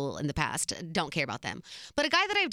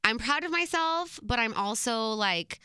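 hurt and frustrated; slower than usual. Real, not acted. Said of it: "I've been so nervous to talk about this".

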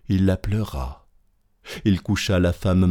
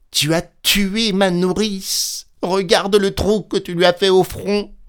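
high, raised accusing cry; accusation criée; 11 semitones higher, 3 dB louder than usual. A narrator's reading. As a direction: accuse him in an outcry. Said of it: "s'écria-t-il en empoignant l'aubergiste". (accusation indignée, voix aiguë)

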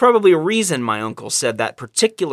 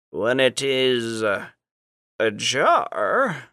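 lightly voiced stern stranger; 4 semitones lower, 4 dB quieter, much slower than usual. Stern cloaked figure answers the riddle.

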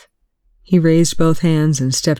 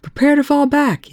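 shouted order; 12 semitones higher than usual. Acted. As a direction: bark the order to fall back. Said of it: "Young shouted".

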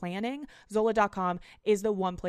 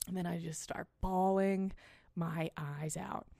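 dragged out, quieter at the end; slow emphatic repeat; 3 semitones lower, 5 dB quieter than usual. Real, not acted. Host repeating the punchline slowly for effect. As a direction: let the last words hang slowly.

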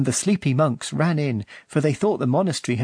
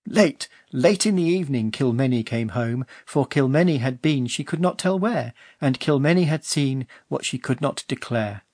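recited verse. A narrator's reading. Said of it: "said her father".

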